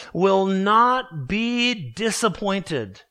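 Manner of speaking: each word slow and weighted, "disappointed" drawn out; slow emphatic reading. Shown as a demonstration. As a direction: read it slowly, leaning on every word. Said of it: "very emphatically".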